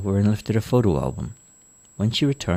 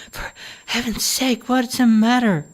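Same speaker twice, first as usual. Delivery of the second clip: put-on higher young woman, asking; a worried daughter asks what's wrong, higher voice; daughter's voice. Daughter bursts into mother's room.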